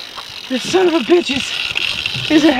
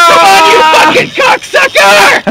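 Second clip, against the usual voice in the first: straining shout; slower than usual. Real, not acted. Fighting the fish on the line.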